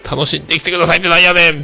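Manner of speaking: high, fast, incredulous comeback; a half-joking tsukkomi; mock retort. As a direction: throw her words back with a Kansai "what's that supposed to mean". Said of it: "っていうね".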